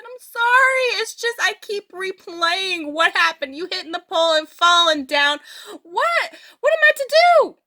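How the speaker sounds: high, rising apology pushing up to a loud cry; giggly apology. Retold or imitated. Narrator apologizing to her mad girlfriend, high and laughing. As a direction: apologize but can't stop laughing.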